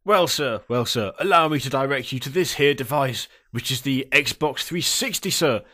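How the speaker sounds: mannered ye olde English salesman; Victorian English gentleman. Acted. Salesman directing customer to an older device, Victorian English gentleman. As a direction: play a formal Victorian English shopkeeper. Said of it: "a ye olde English Victorian-y style".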